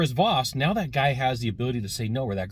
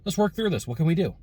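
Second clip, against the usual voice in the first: upbeat salesman voice, pitched higher; salesman hat; 6 semitones higher than usual. Retold or imitated. Customer turns on salesman charm with the rental clerk. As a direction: switch on the can-do salesman charm. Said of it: "put on my salesman hat".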